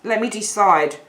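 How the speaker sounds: slow, drawn-out names as if mulling choices; musing indecisively. Acted. Other person picking between sweethearts for tonight, musing indecisively. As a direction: weigh up each name slowly, one by one. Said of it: "there they are kind of saying".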